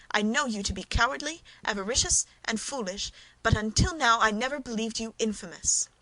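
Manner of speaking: a heated but contained rebuke; passionate anger. Acted. Wife rebuking her cowardly husband, in passionate anger. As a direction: scorn him, voice rising. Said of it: "seen his wife in a passion".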